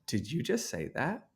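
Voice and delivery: moved, a touch of emotion in the question; getting emotional. Real, not acted. Father astonished by his son's apology, a little emotional. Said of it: "now I'm getting a little emotional".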